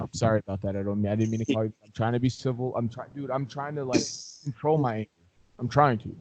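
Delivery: low and soft, holding anger in; hammed-up forced composure; a lightly faked effort to stay calm; mock restrained calm.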